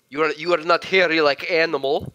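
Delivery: mock Russian Schwarzenegger accent; clumsy comic Russian accent; put-on Russian accent. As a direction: play up a silly thick Russian accent. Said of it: "what the hell that accent was".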